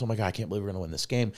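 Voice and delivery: rapid excited gush; breathless fast excitement on the phone. Retold or imitated. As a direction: blurt it out fast. Excited call to boss.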